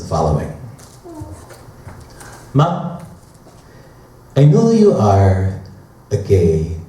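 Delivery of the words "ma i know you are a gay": light Filipino-accented English, imitating a friend. Edgar telling Matt he is off-limits, in a light Filipino accent. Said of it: "I can do the Filipino accent quite well".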